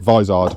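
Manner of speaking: Vizard said as VY-zard, long first vowel; author's own pronunciation. Shown as a demonstration. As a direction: say Vizard with "vie" at the start. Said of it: "I think he pronounces it".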